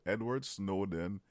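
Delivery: slow, deliberate introduction; proper introduction. Shown as a demonstration. Co-host shows how to introduce someone properly, slow and deliberate. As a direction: introduce it slowly, word by word. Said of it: "tu le fais pas comme il faut".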